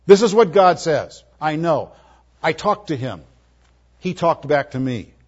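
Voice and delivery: a hint of a confident prophet speaking; authoritative declaration. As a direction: state it as settled truth, mildly voiced. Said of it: "He testified to the very oracles of God".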